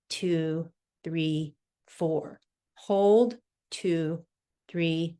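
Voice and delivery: calm, paced breathing count; slow breath counting. Acted. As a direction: count the breaths slowly and evenly.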